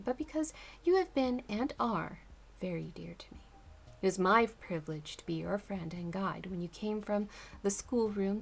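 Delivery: gentle letter read aloud, tender pace. Acted. Continues reading the letter.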